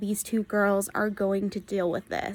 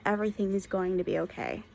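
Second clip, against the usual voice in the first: softer, gentle comforting hush; soft reassurance; 2 semitones lower, 6 dB quieter than usual. Retold or imitated. Vlogger to book's girls, a soft gentle reassurance. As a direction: soothe them like a hug. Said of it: "I really just wanna hug these girls and be like".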